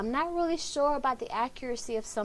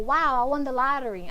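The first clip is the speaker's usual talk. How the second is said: loud, higher burst of joy; excited; 3 semitones higher, 8 dB louder than usual. Shown as a demonstration. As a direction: shout for joy at the win. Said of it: "I'm excited".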